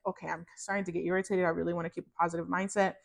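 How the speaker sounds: irritated. Retold or imitated. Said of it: "getting to an irritated place".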